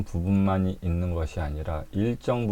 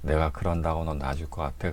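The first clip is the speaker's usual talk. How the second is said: ghost taunt; 4 semitones lower, 4 dB quieter than usual. Retold or imitated. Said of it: "그러면서".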